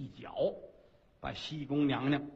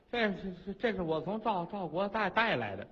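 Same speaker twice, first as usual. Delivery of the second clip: stammering; 3 dB quieter than usual. Acted. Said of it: "怎么这样说话呢？".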